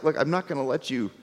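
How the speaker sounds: calm them down, soft and sure; reassuring God. Retold or imitated. God reassuring grumbling people, softly. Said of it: "God's like".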